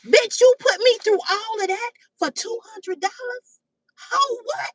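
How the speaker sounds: lightly voiced outraged scolder; mocking body-part voice. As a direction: drag out the insult, then snap up in disbelief. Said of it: "Your pussy is even saying".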